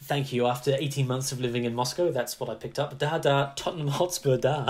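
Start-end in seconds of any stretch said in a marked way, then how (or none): 3.0-4.7 mock Russian accent. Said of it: "That's an impeccable Russian accent".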